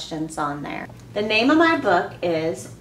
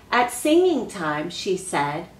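reading a picture book aloud to the class; expressive read-aloud for children; story reading. Acted. Teacher reads story aloud.

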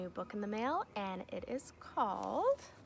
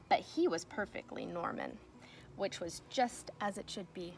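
put-on reading to children. Teacher reading a picture book to her class, storybook voice. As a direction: read it like story time for little kids.

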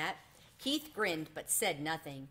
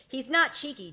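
defending; 8 semitones higher, 8 dB louder than usual. A narrator's reading. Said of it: "defended Keith".

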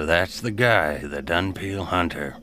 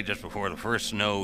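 ordinary delivery

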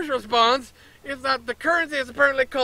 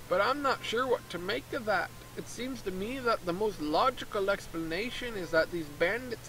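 lightly put-on Canadian-ish accent for the merchant; a hint of a Canadian merchant explaining his plan; 6 dB quieter than usual. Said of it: "what accent is that supposed to be?".

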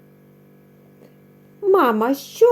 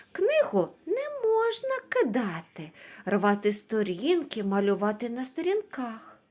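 raised warning; 7 dB quieter than usual. Acted. Teacher warns kids about books.

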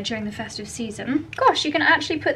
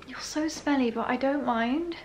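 fond pet talk; 2 semitones higher, 5 dB quieter than usual. Real, not acted. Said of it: "Charlie and I always say that".

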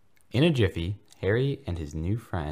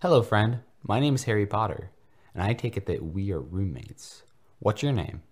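declared bravely; 4 semitones higher, 4 dB louder than usual. Acted. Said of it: "declared bravely".

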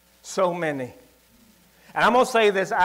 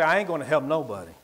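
bitter vow; 4 semitones lower, faster than usual. Retold or imitated. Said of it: "it made me say".

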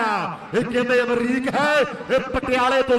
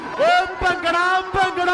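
excited call; 4 semitones higher than usual. Real, not acted. Calling out to the crowd.

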